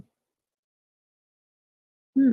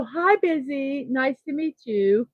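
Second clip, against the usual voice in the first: dad joke greeting; 4 semitones higher, 3 dB quieter than usual. Pretend. Mom turning the viewer's name into a dad joke. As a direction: greet Busy like a teasing parent.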